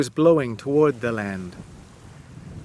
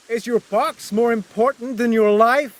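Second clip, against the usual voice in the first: a raised, mildly shouted question; 7 semitones higher than usual. Acted. Narrator challenging Wyatt from the boat, mild shout. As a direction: challenge him across the water. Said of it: "I shouted".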